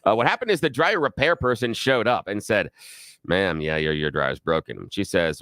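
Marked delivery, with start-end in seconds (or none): 3.2-4.9 lower, matter-of-fact repairman voice; lightly voiced tired repairman; repairman's voice. Host voicing the repairman telling the customer her dryer is broken, lower and matter-of-fact.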